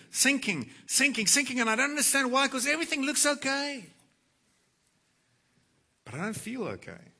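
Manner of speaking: rising despair. Acted. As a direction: let the panic build as you sink. Preacher voicing a depressed believer.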